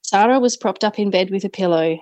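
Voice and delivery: measured memoir reading voice; story narration. A narrator's reading. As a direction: read it like an audiobook. Author reads her memoir aloud.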